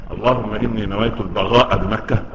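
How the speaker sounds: البغاء with ghayn where qaf belongs. Retold or imitated. Man mocks a regional prayer at Mecca, ghayn for qaf. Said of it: "اللي تنطق القاف غين".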